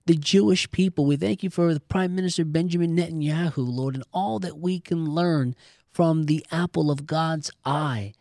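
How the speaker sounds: spoken prayer to the Father, earnest. Acted. Host leading listeners in closing prayer, earnest and steady. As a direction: pray it aloud for the listeners.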